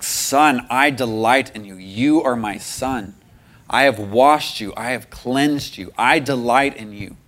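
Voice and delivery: tender, measured fatherly declaration; much gentler voice. Retold or imitated. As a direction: declare it gently, letting each sentence settle. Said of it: "in a much gentler voice".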